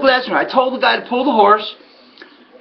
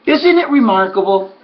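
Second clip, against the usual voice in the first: sarcastic; 3 semitones higher, slower than usual. Retold or imitated. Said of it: "So I say to him".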